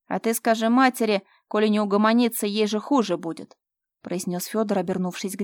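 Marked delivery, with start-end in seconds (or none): 0.1-3.6 loud menacing threat; threatening. Acted. Fyodor threatens his stepmother, loud and menacing. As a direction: bark the warning at her.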